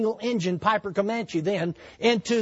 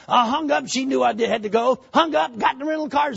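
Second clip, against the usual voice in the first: ordinary delivery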